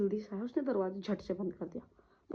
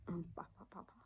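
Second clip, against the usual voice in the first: soft calling; 3 semitones lower, 16 dB quieter than usual. Retold or imitated. Calling unconscious father softly.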